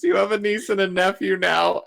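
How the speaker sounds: half-hearted retelling of a tearful yell; mock yell. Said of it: "Just yells at Ben".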